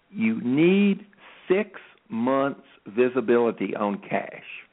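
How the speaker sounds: very slow, deliberate, spelled out word by word. Making a point he promised to repeat twice, said slowly. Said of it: "I'm going to say this slowly".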